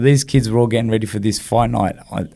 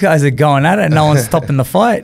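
amazed inner thought; 5 semitones higher, 3 dB louder than usual. Retold or imitated. Inner thought watching sparring.

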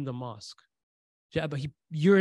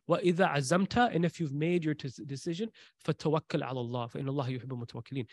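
Quranic recitation; 2 semitones lower, 3 dB quieter, much faster than usual. Acted.

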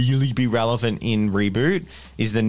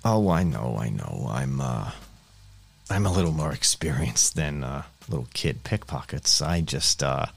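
noir detective; 3 semitones lower, 3 dB quieter than usual. Acted. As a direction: play a gumshoe, low and unhurried. GM voicing Chessex, noir-ish info broker.

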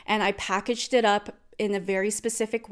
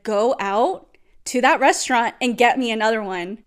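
loud, insistent retold demand; dead serious; 2 semitones higher, 6 dB louder than usual. Ordering partner back to the restaurant, dead serious. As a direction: order it in mock full seriousness. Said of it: "I was being so serious".

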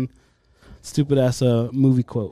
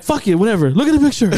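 retold teasing; 7 semitones higher, faster than usual. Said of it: "I was like".

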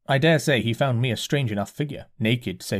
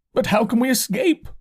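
dazed curate; 11 semitones higher, 4 dB louder than usual. A narrator's reading. Curate voiced by narrator.

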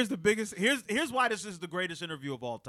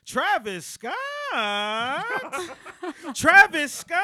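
higher and rising, mocking disbelief; incredulous; 8 semitones higher, 6 dB louder, slower than usual. Retelling the rapper scoffing at the host, incredulous. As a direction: scoff at the name. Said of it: "He goes".

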